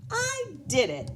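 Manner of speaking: high, delighted cheer; proud little boy triumph; thrilled kid who finally did it; happily. Acted. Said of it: "he said happily".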